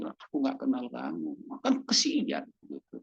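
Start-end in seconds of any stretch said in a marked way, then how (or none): 0.0-1.3 Lord's rejection. Retold or imitated. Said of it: "Tuhan bilang".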